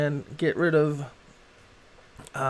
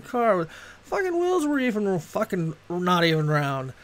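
lightly acted sweary street rant; mock Boston street talk; 5 semitones higher than usual. Shown as a demonstration. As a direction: rattle off curses like a local, no accent. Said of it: "So it's like ... That's how, just talk".

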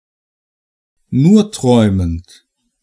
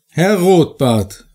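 higher, lightly raised call to Herr Rotbart; mild call; 5 semitones higher than usual. Acted. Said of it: "rief ich laut". (leicht erhobener Ruf, etwas höher)

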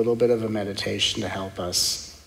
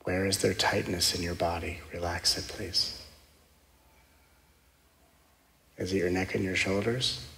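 guided meditation; 3 semitones lower, 6 dB quieter than usual. Acted. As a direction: guide them gently into stillness.

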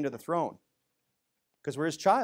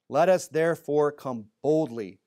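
slow, louder reading of the verse; scripture reading; 4 dB louder, slower than usual. Acted. Preacher reading verse sixteen to the church, slow and firm.

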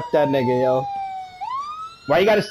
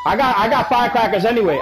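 laughing. Real, not acted. Giggling while talking.

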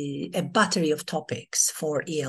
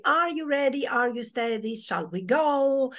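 storyteller call-out; 6 semitones higher than usual. Shown as a demonstration. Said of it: "another way to start your storytelling is to say".

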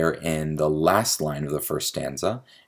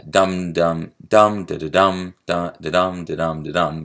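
heavy separate "dum, dum, dum", then running "da-dum"; abrupt meter demo; 3 dB louder than usual. Shown as a demonstration. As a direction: pound the first dums, then fall into iambs. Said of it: "the abrupt changes in meter".

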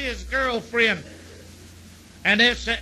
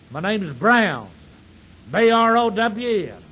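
boastful Texan; 4 dB louder than usual. Acted. Boastful Texan introduces himself.

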